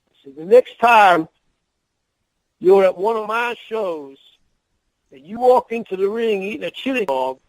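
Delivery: put-on a promoter lays down the law in a thick Southern accent. Promoter warning the wrestler in the locker room, thick Southern accent. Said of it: "in a, a real thick Southern accent".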